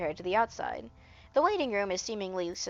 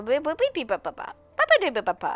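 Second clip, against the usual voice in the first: stutter; 7 semitones higher, 4 dB louder, faster than usual. Acted. Character stutters on a word.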